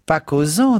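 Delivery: high, loud disapproving charwoman; Mrs Biggs voice. A narrator's reading. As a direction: sniff it out high and prim.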